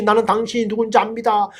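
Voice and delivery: imitated demon outcry, not a full shout; demon's cry. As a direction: lightly voice a demon crying out in protest. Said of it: "귀신이 크게 외치는".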